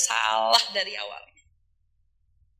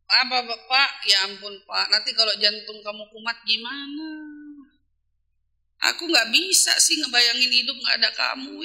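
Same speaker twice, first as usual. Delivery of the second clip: tender wife; 4 semitones lower than usual. Pretend. Wife pleading with her husband about his heart, tenderly. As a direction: plead gently so he slows down. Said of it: "Tapi ngomongnya".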